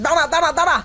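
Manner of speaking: high, hurried challenge; urgent calling out. Acted. Villager calling after fleeing culprits, urgent shout to stop. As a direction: call after someone running away.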